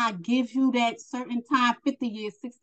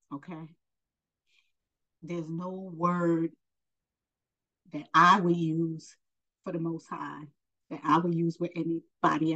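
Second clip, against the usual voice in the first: fighting back emotion, barely above a murmur; holding back tears; 3 semitones lower, 4 dB quieter than usual. Real, not acted. Telling viewers about her faith, quietly choked up. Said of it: "I'm trying not to get emotional".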